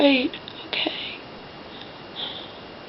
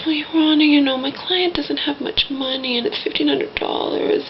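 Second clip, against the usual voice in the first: mildly whiny, higher-pitched lawyer; mock whine, pitched up; whining; 5 semitones higher than usual. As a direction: imitate a lawyer whining to the judge. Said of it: "whining almost".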